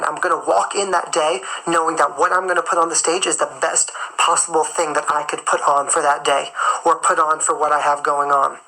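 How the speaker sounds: talking while chewing gum; words round a wad of gum. Real, not acted. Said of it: "I'm chewing gum".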